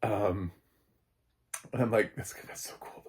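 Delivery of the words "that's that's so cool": excited whispered aside; hushed fan whisper. Retold or imitated. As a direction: breathe it like a secret delight. Own reaction to vampire Miyagi.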